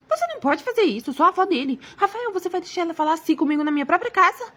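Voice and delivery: high-pitched indignant grandmother; outraged grandmother. Acted. Grandmother appeals to son against his wife, outraged. Grandmother protests being banned.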